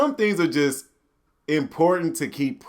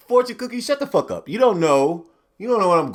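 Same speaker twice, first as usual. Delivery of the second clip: higher, exasperated; mock yelling; 6 semitones higher than usual. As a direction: tell it off. Yelling at fortune cookie.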